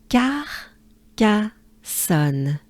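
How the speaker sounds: "Car, ca, son" split into separate beats; syllable by syllable. Shown as a demonstration. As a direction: break Carcassonne into its three syllables. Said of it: "Good breath".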